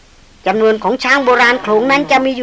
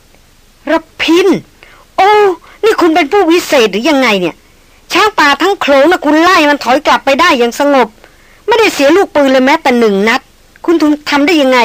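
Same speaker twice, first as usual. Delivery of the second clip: wildly excited; 4 semitones higher than usual. Acted. Heroine marvels at the hunter after the elephants retreat, excited and higher. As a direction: cry out his name, then gush in awe. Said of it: "ร้องออกมาอย่างตื่นเต้นสุดขีด".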